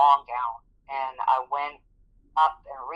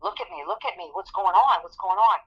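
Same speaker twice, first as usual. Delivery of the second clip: worried supervisor; 4 semitones higher than usual. Retold or imitated. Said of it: "she's like".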